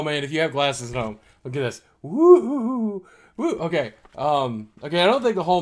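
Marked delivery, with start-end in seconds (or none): 2.0-3.6 high, loud delighted woo; excited woo. Real, not acted. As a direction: cheer at the effect. Reacting to 3D.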